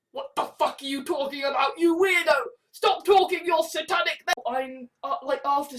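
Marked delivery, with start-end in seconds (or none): 0.1-4.2 mock yell. Schoolkids jeering at weird kid, mock shouting. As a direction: bark it like schoolkids mocking. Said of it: "as you are now, going".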